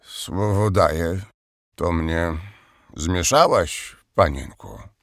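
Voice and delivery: taken aback. A narrator's reading. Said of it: "spojrzał na nią zaskoczony".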